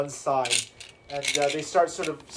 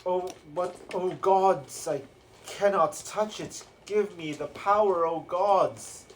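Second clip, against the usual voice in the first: raised, pleading cry to the gods; acted yell; 4 semitones higher, 3 dB louder, slower than usual. Caged brute begging the gods for power, acted yell. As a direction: play a brute calling out for power. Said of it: "they sort of yell".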